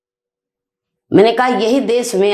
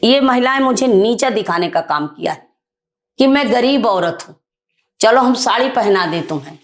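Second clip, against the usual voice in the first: retold angry complaint. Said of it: "मुझे इतना गुस्सा है, मैं रो दी".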